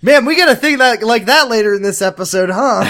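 loud laughing talk. Real, not acted. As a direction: laugh through it. Both laughing at the joke.

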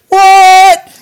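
high, loud incredulous what; baffled what. Retold or imitated. Hearing her roar, a high loud baffled what. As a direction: squawk it in disbelief. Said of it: "she's like".

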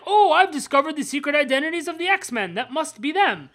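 a hint of a gloating baddie; lightly hammed-up gloating villain; hammed-up villain quote. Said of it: "he's like".

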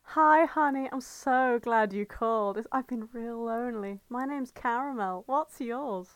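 put-on call girl Caramel. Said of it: "I can be Caramel".

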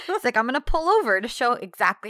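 hammed-up fake serenity; mock calm. Imitating John claiming calm, mock insistence.

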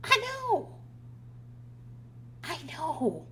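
high, sing-song mocking; sarcastic I know. Mom answering her son's late confession, mocking. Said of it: "I'm like".

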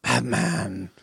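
low, gravelly-free growled Batman impression.

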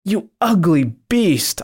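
a mild mock shout at the beast; scolding shout. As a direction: rebuke the monster sharply. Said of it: "I shouted for the second time".

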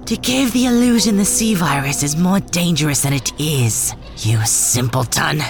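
condescending. Acted. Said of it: "like it's obvious".

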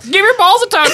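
movie quote impression. Quoting a film line in voice.

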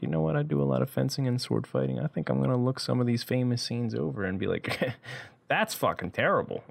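put-on a half-hearted English accent; lightly put-on English accent, imitating the YouTuber; bad English accent. Mocking the swordmaster in a bad English accent. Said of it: "That's a terrible English accent".

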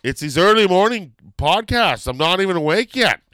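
high, loud complaint in self-defence; loud protest. Real, not acted. Host excusing a memory blank to co-host, loud protest. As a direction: protest loudly, pitched well up. Protesting teasing about getting older.

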